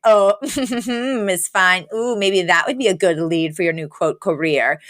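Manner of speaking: mildly dismissive imitation with a little chuckle; mock condescension, understated; super dismissive. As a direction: brush her off lightly, half amused. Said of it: "like, super dismissive".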